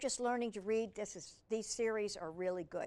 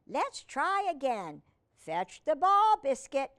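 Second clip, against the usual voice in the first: encouraging command; 5 semitones higher, 7 dB louder than usual. Acted. Girl commands puppy again.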